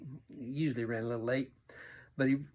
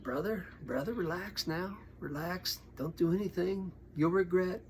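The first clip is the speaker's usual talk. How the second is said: higher, coaxing plea to settle down; retold calming; 5 semitones higher than usual. Preacher talking biker out of a fight, coaxing calm. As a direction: gently talk an angry friend down.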